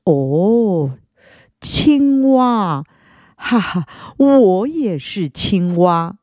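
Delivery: slow, fake-friendly snake; sly snake voice. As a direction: lure the frog in slowly. Snake posing as frog.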